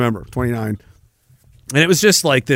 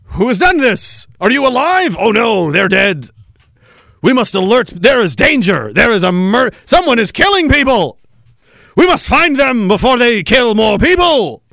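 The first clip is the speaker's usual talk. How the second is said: raised, earnest alarmed voice; mock white people panic; 3 semitones higher than usual. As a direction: play a prim citizen discovering a body. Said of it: "that's what white people are doing".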